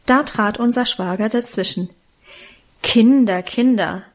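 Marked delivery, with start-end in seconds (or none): 2.8-3.4 louder first admonishing "Kinder"; admonishing call. A narrator's reading. Brother-in-law calling quarreling children to order, admonishing. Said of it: "mahnte er". 3.4-4.0 softer admonishment. A narrator's reading. Brother-in-law gently reproaching the children, soft admonishing. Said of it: "mahnte er".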